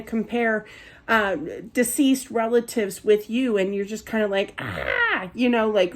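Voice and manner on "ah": low, creaky "ah" of frustration; mock hair-pulling groan; exasperated groan. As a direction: groan as if fed up. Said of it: "about to pull your hair out".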